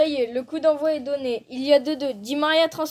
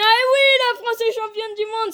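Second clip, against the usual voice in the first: excited sports commentary; 5 semitones higher than usual. Pretend. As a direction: burst out at the win. France wins the world cup.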